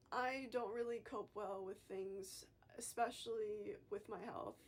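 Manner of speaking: holding back tears, breathy and shaky; trying not to cry; shaky sigh. Real, not acted. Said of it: "I'm trying not to cry in this video".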